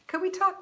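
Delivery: lightly imitating a Southern "talk"; mock Southern talk. Teasing a viewer with her way of saying talk. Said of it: "You wanna talk?".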